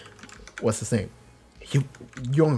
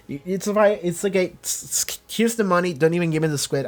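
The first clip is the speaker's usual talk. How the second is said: higher, hurried awkward reassurance; flustered higher-voiced goodbye; nervous brush-off; 4 semitones higher than usual. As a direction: fumble out the money and flee. Customer hurrying out awkwardly.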